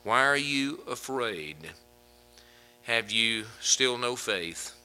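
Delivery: slow, tender asking; gentle question. Pretend. Jesus asking his disciples slowly and gently. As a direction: ask slowly, with kindness. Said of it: "he turns to him and he says".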